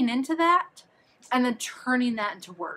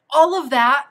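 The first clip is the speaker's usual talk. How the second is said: "all" burst out louder and higher, rising; stress on ALL; 5 semitones higher, 10 dB louder, slower than usual. Real, not acted. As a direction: throw weight on "all". Summing up her points.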